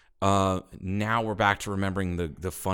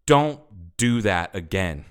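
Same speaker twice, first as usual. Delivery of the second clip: slow, restrained imitated warning; pissed off; 4 dB louder, slower than usual. Officer letting the driver go with a warning, understated pissed-off tone. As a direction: lay down a stern warning, word by word. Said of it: "Like, very just pissed off".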